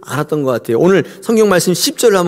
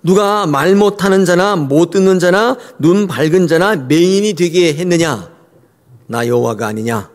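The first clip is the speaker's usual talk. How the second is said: voice of God. Acted. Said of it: "여호와께서 그에게 이르시되".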